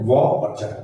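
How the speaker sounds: "वा" and "चर" as two separate syllables; split syllables. Shown as a demonstration. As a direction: say "वा", then "चर", each apart. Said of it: "दो syllable हुए".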